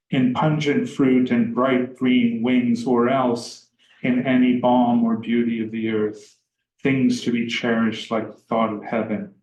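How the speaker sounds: measured, even recital of verse; poem reading. Acted. Lecturer reading Stevens aloud to students, measured recital.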